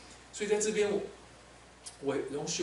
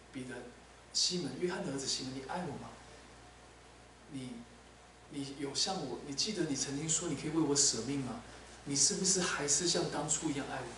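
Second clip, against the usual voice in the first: tender question; 5 dB quieter than usual. Acted. Jesus gently questioning Peter.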